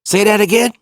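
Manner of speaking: high, loud imitated challenge; challenging. Girlfriend on speakerphone challenges cheating cousin, imitated disbelief. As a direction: dare him to repeat himself.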